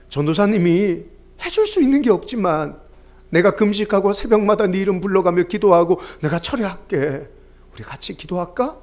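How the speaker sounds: put-on comforting a child. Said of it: "제가 뭐라 그랬을까요?".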